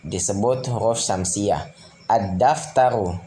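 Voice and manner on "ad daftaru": slow Ad-daftaru with a doubled d and no l; lam left silent. Shown as a demonstration. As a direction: hold the d of Ad-daftaru in place of the lam. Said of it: "tidak dibaca alif lam".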